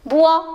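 "bois" said as one syllable, bwa; syllable demo. Shown as a demonstration. Teacher shows how B with wa sounds, "bois" as one clear bwa. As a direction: blend B and wa into "bois". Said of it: "Elle se prononce".

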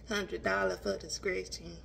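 slow, low mock of the framer's line; imitating the framer. Mimicking the framer quoting his price, slow and low. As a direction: say it slowly like the shop guy quoting a price. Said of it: "And that's how he said it".

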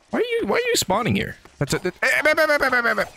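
high, panicky stammering squeal; panicked squeal. Real, not acted. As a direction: squeak in real alarm at the sudden spawn. Mob suddenly spawns, panicking.

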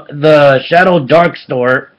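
slow phrase with emphasis on "Dark"; stress on Dark. Real, not acted. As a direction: lean on the word "Dark", drawing the phrase out. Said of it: "emphasis on dark".

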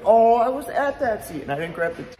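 high whiny voice of a disappointed fan; mock fan complaint. Mock whine from the ticket holder who missed the guitar pick.

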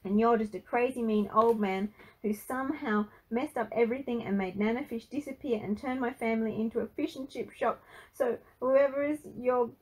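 loud, high, breathless-running rant; screamed tirade. A narrator's reading. Frankie loses it at granddad, screaming. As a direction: lose it and let rip. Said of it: "he screamed".

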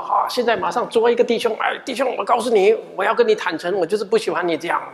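lightly voiced blunt brother; mock blunt confrontation. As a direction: play a tactless brother, brisk at the end. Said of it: "我也不是叫各位听了这句话".

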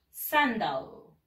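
Sandal with weight on SAN, falling low; stress on SAN. Shown as a demonstration. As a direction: push the first syllable of Sandal and let the second drop. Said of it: "le vamos a dar más fuerza allí".

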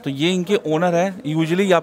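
muffled behind cloth mask; speaking with mouth covered; through a face mask. Real, not acted. Seen 0: Green patterned cloth mask covers his mouth while talking to camera.

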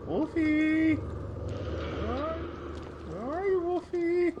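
calling out. Real, not acted. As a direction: shout his name across the room. Calling for lost dog in game.

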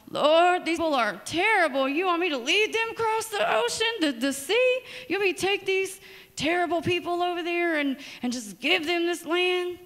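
high, whining plea to God; whiny complaint. Pretend. Joshua whining to the Lord about his people, high and whiny. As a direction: whine like a dramatic complainer.

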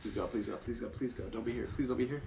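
soft tense plea; hushed pleading. Real, not acted. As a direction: plead under your breath. Hiding, monster nearby.

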